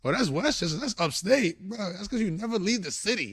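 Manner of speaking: lightly mock the city snob; mock Bronx cousin. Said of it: "And be like".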